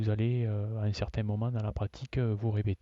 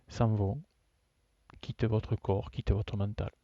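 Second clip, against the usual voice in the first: measured yoga nidra instruction with long pauses; guided relaxation. Real, not acted. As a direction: guide them phrase by phrase, leaving long silences. Leads a yoga nidra session.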